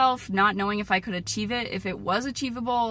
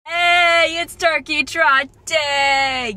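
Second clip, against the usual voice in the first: excited; 6 semitones higher, 9 dB louder, much slower than usual. Real, not acted. Race day greeting.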